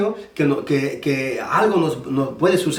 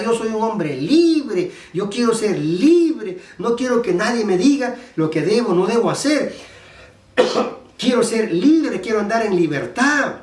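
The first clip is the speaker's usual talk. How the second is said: mock defiant protest; 4 semitones higher than usual. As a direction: act out a stubborn demand for freedom. Acted protest against God's prohibitions.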